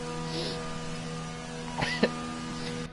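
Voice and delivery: 1 breathless silent laugh. Real, not acted. Laughing at Oscar's penalties.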